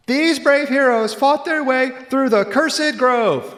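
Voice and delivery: put-on high, slow, grand kid announcer; child narrator voice. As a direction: announce it like a proud school-play narrator.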